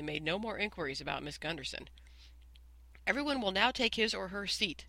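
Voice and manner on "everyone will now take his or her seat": commanding. Acted. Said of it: "commanded Stewart".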